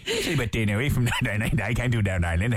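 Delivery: low, put-on Northern Irish accent; half-committed imitation Northern Irish accent. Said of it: "do the Northern Ireland accent again".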